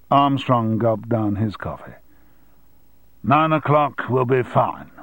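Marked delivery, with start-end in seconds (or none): 3.2-4.9 slow reluctant reply. Acted. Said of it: "he said eventually".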